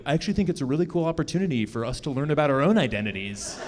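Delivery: brisk self-help optimism; reciting a self-help book, brisk and upbeat. Retold or imitated. Boyfriend recites a self-help book to friends, brisk upbeat. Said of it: "reading from a self-help book".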